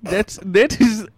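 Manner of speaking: light mock Italian-German mobster accent; a hint of a thick foreign accent, deadpan; put-on Godfather accent. Caller plays a Godfather, mild mock foreign accent. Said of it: "it's probably my accent".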